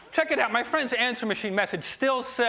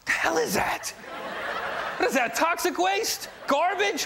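disgusted shout; 9 semitones higher than usual. Retold or imitated. Friend disgusted by Jersey smell.

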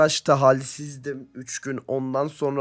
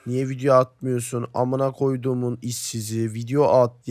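mock angry viewers; 6 dB louder than usual. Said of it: "sülaleme sövüyorsunuz".

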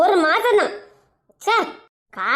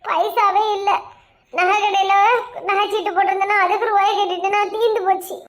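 mild mock-crying plea; acted, lightly weepy explanation; tearful excuse; 2 semitones higher than usual. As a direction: plead as if close to tears. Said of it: "அதுக்கு எதுக்கு அழுற".

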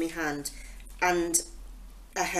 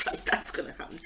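sarcastic thought; 6 dB quieter, faster than usual. Retold or imitated.

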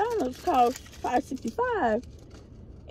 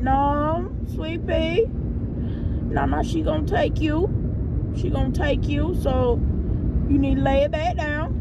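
retold sweet-talk with rising ends; higher, coaxing voice for a little one; gently coaxing a child; 4 semitones higher than usual. Mom turning down little one expecting school, coaxing.

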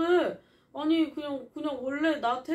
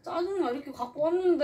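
real upset, pitched-up tearful whine; tearful complaint; 6 semitones higher, 4 dB louder than usual. Real, not acted. Hurt woman to the man after bringing it over, tearful. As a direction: complain through rising tears. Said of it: "울지 마, 울지 마".

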